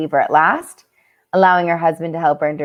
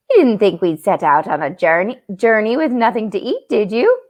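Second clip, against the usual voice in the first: a bit Irish; 2 semitones higher than usual. Acted. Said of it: "went a little Irish there".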